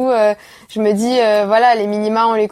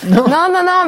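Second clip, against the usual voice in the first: laughing; 8 semitones higher, 4 dB louder, slower than usual. Real, not acted. Laughing off host's joke.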